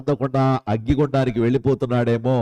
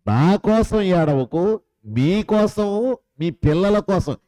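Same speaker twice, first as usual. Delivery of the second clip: higher and slow, stretching each కోసం; pleading higher restatement; raised repeat; 5 semitones higher, slower than usual. Acted. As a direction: lift the repeated saying up high to press it home. Same quote repeated, raised.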